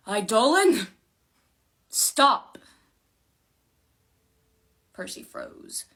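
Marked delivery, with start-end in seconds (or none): 0.1-2.6 loud, high, forceful shout; furious halt, each word separate; angry command. A narrator's reading. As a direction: pour all your anger into the order. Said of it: "She poured all her anger into her voice".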